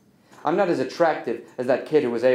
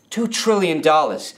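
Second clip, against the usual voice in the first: "Two trillion dollars" repeated slower, higher in pitch; emphatic disbelief; 4 semitones higher, 3 dB louder than usual. Acted.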